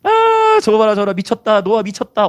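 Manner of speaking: acted catcalls from scoffing onlookers; mocking crowd. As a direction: hoot in derision at a madman. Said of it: "얼마나 조롱했겠어".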